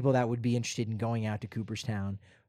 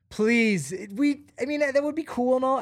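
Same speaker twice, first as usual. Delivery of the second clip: mock fan plea; 10 semitones higher than usual. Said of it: "Be like".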